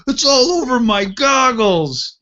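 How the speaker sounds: high-pitched mock yell of disgust; hammed-up high scream, retelling; retold screaming. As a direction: imitate the gunner wailing in horror. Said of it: "the T C screaming".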